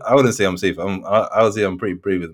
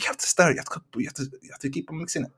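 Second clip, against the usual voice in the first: put-on hushed, higher Asian auntie accent; terrible Asian accent; 7 semitones higher, 8 dB quieter, faster than usual. Older waitress instructing a diner, in a terrible Asian accent. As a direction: badly imitate an Asian waitress's accent, softly. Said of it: "that was a terrible accent".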